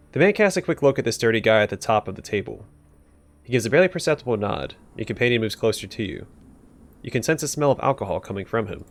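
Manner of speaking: steady narrator read of the scene; narrating a gangster's look for the player; story narration. A narrator's reading. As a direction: set the scene like a game narrator. Reads game narration.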